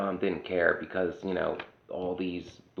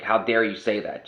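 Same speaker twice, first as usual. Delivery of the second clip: mock indignation; 2 semitones higher, 6 dB louder than usual. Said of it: "they get mad at you".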